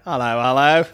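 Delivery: mock British warm-up hello; lightly put-on British greeting; British accent. Shown as a demonstration. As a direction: find the British accent on two rising hellos. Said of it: "mine's always like".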